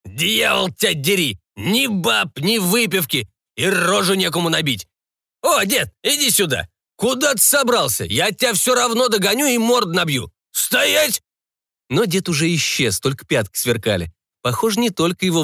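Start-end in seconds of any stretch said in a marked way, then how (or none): 0.0-11.2 very high, raging pirate yell; enraged ghost pirate shouting; furious pirate. A narrator's reading. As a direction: chase him in fury. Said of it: "пришёл в бешенство".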